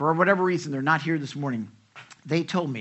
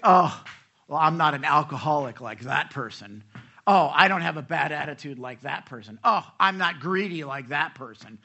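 mock self-righteous; 5 dB louder than usual. Mocking self-righteous churchgoers.

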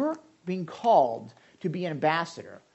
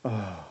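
mock grumble groan; 8 semitones lower, 5 dB quieter than usual. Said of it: "I go".

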